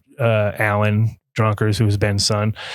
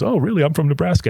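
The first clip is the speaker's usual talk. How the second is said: higher, pleased surprise; surprised customer; 6 semitones higher than usual. Retold or imitated. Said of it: "the guy goes".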